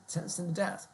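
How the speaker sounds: baffled juror protesting the verdict; incredulous juror. Pretend. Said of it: "Do you hear".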